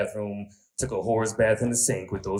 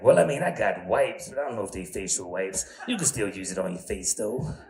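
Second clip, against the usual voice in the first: T Tina voice. Retold or imitated. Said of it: "voice like this".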